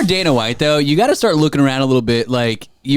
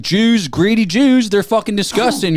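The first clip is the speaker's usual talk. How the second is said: mock bigot rant; 8 semitones higher than usual. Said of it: "he was like".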